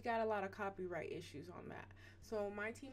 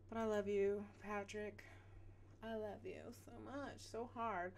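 tender; 6 dB quieter than usual. Real, not acted. Tender aside to a fan.

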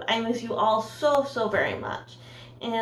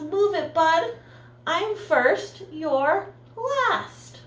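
pushy truck; 7 semitones higher, much slower than usual. Acted. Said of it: "grocery truck gave his horn a blast".

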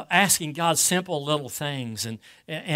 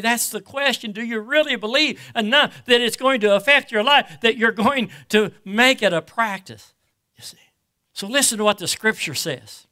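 projected, emphatic sermon delivery; preaching; 5 semitones higher, 6 dB louder than usual. Real, not acted. Preacher urging the congregation to abide in the word, preaching.

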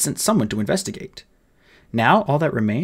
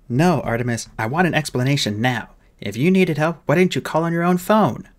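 lightly voiced demanding fairy officer; fairy captain; 4 semitones higher than usual. Fairy captain demanding an explanation, mildly indignant. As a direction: press the boy for answers, pitch lifting.

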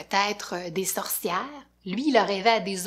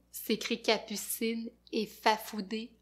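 usual speaking voice

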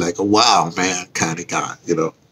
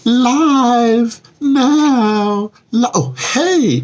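high, bright excited hello; excited greeting; 14 semitones higher, much slower than usual. Real, not acted. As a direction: call out high like a host. Goes live, greets Instagram.

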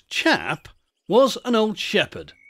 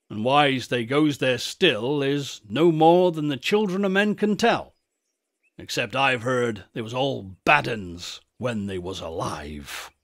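lightly voiced countryman telling a local legend; old rustic shepherd.

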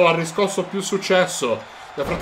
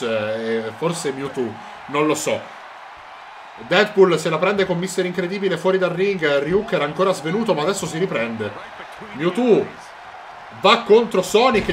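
normal talking voice

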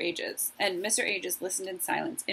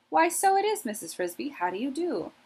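put-on surprised, cordial old mouse; startled but cordial; 7 semitones higher than usual. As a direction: caught off guard, then polite. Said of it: "He sounded cordial enough, but he was startled".

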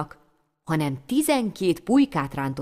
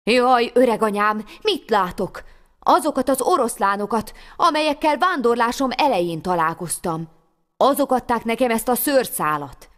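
put-on louder, higher, amazed boy; excited; 4 semitones higher, 3 dB louder than usual. Boy sees the lions again, excited wonder. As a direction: tell grandmother in rising wonder.

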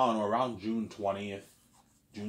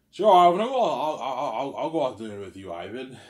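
hammed-up delighted acceptance, tripping into a laugh; imitated eager yes; 4 semitones higher, 10 dB louder than usual. Woman accepting his dinner invitation, imitated eager yes. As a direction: burst out high and loud, then settle.

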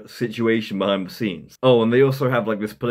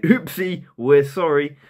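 mock apology; 3 semitones higher, slower than usual. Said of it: "just a sort of, like".

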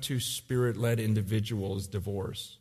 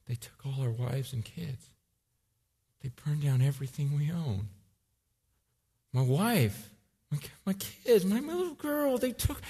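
grieving soldier; 2 semitones higher than usual. Retold or imitated. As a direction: voice catching as he names his little girl. Soldier grieving his lost family.

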